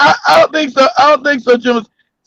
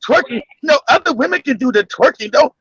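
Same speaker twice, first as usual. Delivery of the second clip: imitating Maria. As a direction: play a reserved old lady refusing. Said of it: "Maria said".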